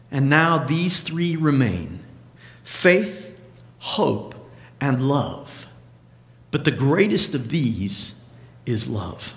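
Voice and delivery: slow, measured reading of scripture, letting the lines land. Acted. Preacher reads the love chapter to the congregation, measured scripture reading. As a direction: read the love passage like a lesson from the pulpit.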